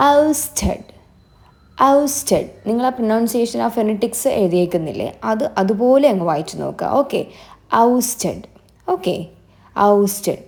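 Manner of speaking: Ousted said clearly as "aust-ed" with a falling end; model pronunciation. Shown as a demonstration. Teacher showing students how to say Ousted, clear and falling. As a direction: give Ousted as a clean model for repeating. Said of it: "pronounce ചെയ്ത് നോക്കൂ".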